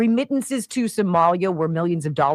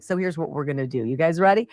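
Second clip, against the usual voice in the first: imitating Besson; faster than usual. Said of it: "Here's Scott Besson. He's like".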